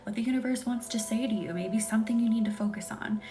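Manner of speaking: hushed, breathy bedtime whisper-talk. Real, not acted. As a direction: lull the viewers toward sleep. ASMR live, soft whispery talk.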